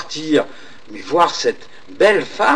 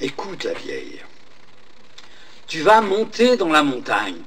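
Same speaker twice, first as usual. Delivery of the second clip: calm wizard; 4 dB quieter than usual. Acted. Merlin answers the old woman.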